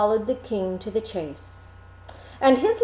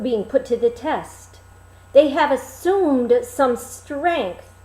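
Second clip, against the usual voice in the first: lion's advice; 6 dB louder than usual. Acted. Lion advises the king.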